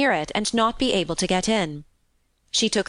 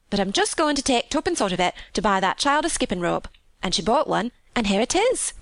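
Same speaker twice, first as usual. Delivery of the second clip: higher, lilting Yorkshire maid; chatty country housemaid; 3 semitones higher than usual. Acted. Maid relaying her mother's questions, chatty. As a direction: pass on mother's concern as a gossipy maid. Martha retells the purchase.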